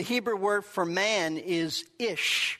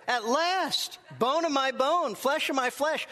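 higher-pitched, thrilled exclamation; joyful cheer; 4 semitones higher than usual. Acted. Preacher as Adam greeting his new wife, joyful cheer. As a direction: cry it out as a man overwhelmed with joy. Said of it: "these words are a cheer from Adam".

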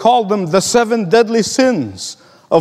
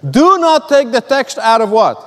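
"Do not" hit firmly at the start, falling to "what"; emphatic repeat; 3 semitones higher than usual. Real, not acted. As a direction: repeat the rule firmly, prompting listeners with "what". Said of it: "Let me repeat this".

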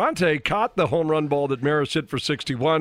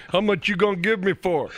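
put-on New York accent; 4 semitones higher than usual. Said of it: "That's a terrible New York accent".

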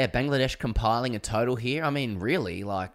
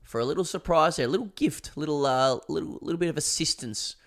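coy teasing pitch; 7 semitones higher, 3 dB louder than usual. Pretend. Playful sponsor code pitch.

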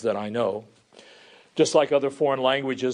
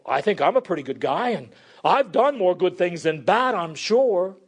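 raised, higher-pitched preacher's voice; preaching; 6 semitones higher, 3 dB louder than usual. Acted. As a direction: preach it out, voicing confident churchgoers. Preaches in the crowd's words.

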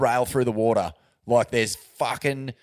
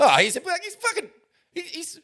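laughing. Real, not acted. Laughing mid-sentence.

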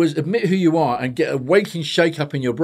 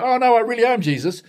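imagined backtracking; 8 semitones higher than usual. Retold or imitated. He can't then go.

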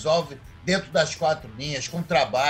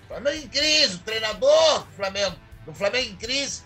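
theatrical orator, emphatic rising phrases with pauses; discurso teatral; 3 semitones higher than usual. Acted. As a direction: proclaim it like a grand revelation. (discurso inflamado e pausado)

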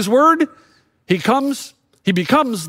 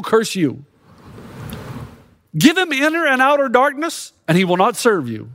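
higher, needling accuser building to a peak; accusing Satan; 4 semitones higher than usual. Retold or imitated. Satan accusing Job before God, building to a peak. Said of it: "Satan says to God".

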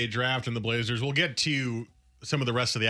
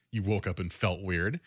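lower, disbelieving question with a rising end; skeptical echo; 4 semitones lower than usual. Acted. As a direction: throw the excuse back as a doubtful question. Throwing the player's excuse back.

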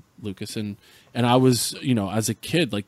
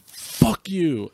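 high-pitched retold yell, not much louder; mock yell; 7 semitones higher than usual. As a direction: toss out a mock taunting shout. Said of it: "as loud as they could".

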